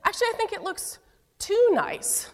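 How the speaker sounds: a hint of a fussy old churchgoer; prim church lady. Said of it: "she said".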